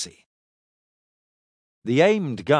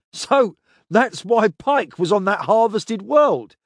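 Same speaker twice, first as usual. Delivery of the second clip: higher and louder, gloating laugh; 9 semitones higher, 6 dB louder than usual. A narrator's reading. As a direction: grin through the words. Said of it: "Tloskin Ray laughed out loud".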